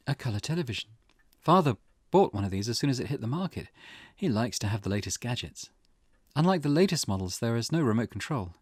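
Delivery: measured, lightly acted inner monologue; character's lightly acted recollection. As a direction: lightly voice a wife recalling family life. Voices game character's recollection.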